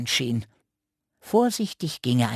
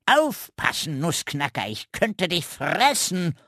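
croaking threat; 5 semitones higher than usual. Acted. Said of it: "krächzte der Rabe".

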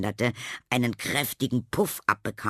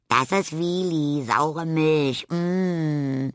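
proud; 6 semitones higher, 4 dB louder, much slower than usual. Acted. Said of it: "erklärte Tilda stolz".

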